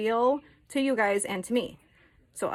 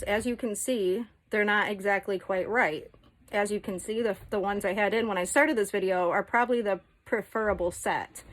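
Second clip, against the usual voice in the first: lisping with dentures. Real, not acted. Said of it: "I have a lisp again".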